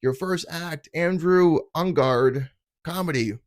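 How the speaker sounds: a hint of a cheesy show host. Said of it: "and he's like".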